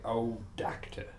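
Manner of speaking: soft soothing song. Retold or imitated. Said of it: "It's this really soft, quite soothing".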